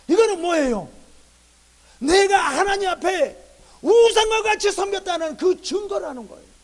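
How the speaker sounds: loud, high, sustained exhortation; full-force preaching. Real, not acted. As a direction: press the verdict on the congregation, hitting each phrase. (목소리 높여 열정적으로 설교)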